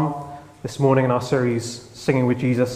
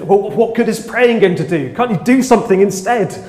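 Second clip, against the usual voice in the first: lightly raised scornful challenge; mocking scoff; 5 semitones higher, 3 dB louder than usual. Critics scoffing at thoughts and prayers, mild raised scorn. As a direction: scoff at prayer, a touch higher. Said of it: "people mock as if".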